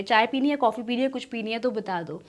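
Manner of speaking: casual offer. Shown as a demonstration. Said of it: "ये जो casual tone है".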